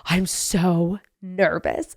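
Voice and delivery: put-on slow, small, soft kid voice; nervous little boy. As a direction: play her five-year-old son, timid and slow. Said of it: "And he goes".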